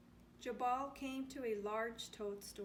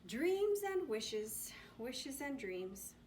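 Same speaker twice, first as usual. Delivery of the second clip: with a wink; 2 semitones higher, slower than usual. Acted. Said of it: "said with a wink".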